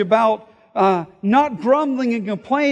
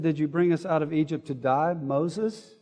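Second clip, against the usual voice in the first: much softer, trailing grumble at Moses; muttered complaint; 4 semitones lower, 6 dB quieter than usual. Retold or imitated. Israelites grumbling at Moses, softly muttered. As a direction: drop it to a sulky mutter. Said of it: "They said".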